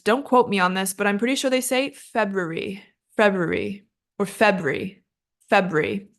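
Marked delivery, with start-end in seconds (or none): 1.9-3.9 February run together as British speakers might; British pronunciation. Shown as a demonstration. Teacher guessing the British version for learners, British pronunciation. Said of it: "If you're aiming for a British accent". 4.3-6.1 February squeezed into fewer syllables, British style; British pronunciation. Shown as a demonstration. Teacher offering a shorter British option, compressed pronunciation. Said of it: "They might just split it into two syllables".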